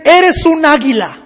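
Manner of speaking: slow, weighty declaration; deliberate, insistent urging; solemn command. Acted. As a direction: drive each phrase home slowly. Man solemnly commands the eagle.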